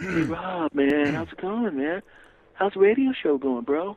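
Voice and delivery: slow, easy mock beach-bum greeting; laid-back California dude. Imitating his new LA self greeting the radio host, slow mock surfer. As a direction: greet the host like a relaxed LA bro. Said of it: "you start talking slower like this".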